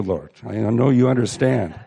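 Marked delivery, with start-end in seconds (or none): none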